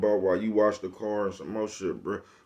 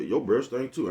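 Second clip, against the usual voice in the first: a higher, louder retort, lightly voiced; mock comeback; 5 semitones higher, 3 dB louder than usual. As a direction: toss the insult back in a pretend tone. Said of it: "And you say".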